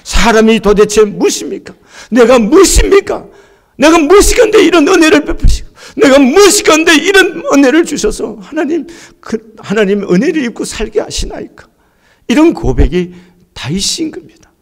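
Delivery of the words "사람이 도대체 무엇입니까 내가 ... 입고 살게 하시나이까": David's awed confession. Retold or imitated. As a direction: pour out a humbled question to God, building up. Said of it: "이런 얘기를 합니다". (다윗처럼 점점 높아지는 간절한 고백)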